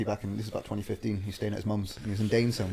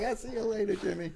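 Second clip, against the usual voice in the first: much higher, hammed-up panicked voice; frightened Karen; 11 semitones higher, 3 dB quieter than usual. Storyteller mimicking Karen to the stranger, hammed-up and high. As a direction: squeak it out like a scared wife, laughing. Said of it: "I was like".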